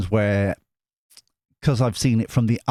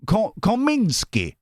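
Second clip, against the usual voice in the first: slow "Kominsky" said higher, in a mock Russian accent; mock Russian name; 10 semitones higher, slower than usual. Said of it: "Russian voice".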